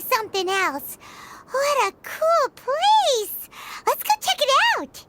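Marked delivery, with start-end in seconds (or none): 1.5-5.0 excited wonder. Acted. Paimon marvels at Aru Village to the traveler, excited gush. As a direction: gush over the new place.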